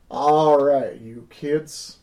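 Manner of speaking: trying out a character voice; first stab at a drawling character; character voice attempt. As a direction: open loud on a drawn-out greeting, then ease off. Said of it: "get into this voice".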